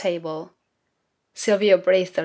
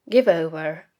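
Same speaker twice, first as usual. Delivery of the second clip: a lowered gruff growl. A narrator's reading. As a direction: growl it to silence the boy. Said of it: "Silvio growled".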